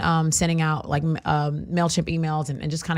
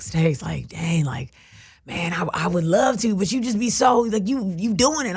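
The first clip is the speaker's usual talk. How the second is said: mock guy friend; slower than usual. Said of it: "guy friends who will be like".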